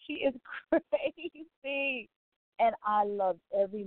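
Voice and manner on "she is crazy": slow, laughing through the words; amused, drawn-out laugh-talk. Retold or imitated. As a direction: giggle it out in delight. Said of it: "I was like".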